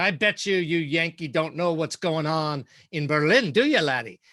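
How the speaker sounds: put-on heavy, thick, broad Scottish accent. Retelling what an editor said on a phone call, thick scottish accent. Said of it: "said in a thick Scottish accent".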